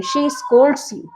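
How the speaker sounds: very slow, word by word for learners; slow dictation. Shown as a demonstration. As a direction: drag each word out for the class. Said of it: "वह तुम्हें डांटती है". (धीरे-धीरे, हर शब्द अलग)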